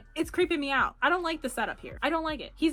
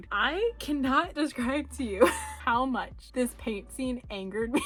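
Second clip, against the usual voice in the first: laughing through words. Real, not acted. Laughing while ranting.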